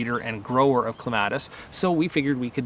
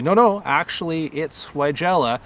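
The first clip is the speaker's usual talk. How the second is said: mock correction; 4 semitones higher, 3 dB louder than usual. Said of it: "stop the person ... and say".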